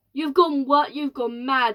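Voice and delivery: shouting. Acted. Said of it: "shouted ground control".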